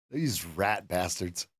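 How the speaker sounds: low grumbled curse. Real, not acted. Trader cursing the market after his loss, low slow grumble. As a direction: grumble it under your breath.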